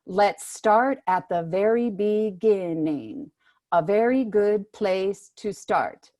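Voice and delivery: slow collapsing phrasing of a singer; lightly voiced singer, slow and drawn out; singer demo. Shown as a demonstration. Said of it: "So I'm just gonna say the first, the first phrase".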